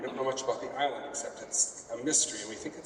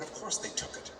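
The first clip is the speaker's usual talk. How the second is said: 1 mock whisper; 7 semitones higher, 6 dB quieter than usual. Retelling reply to questions.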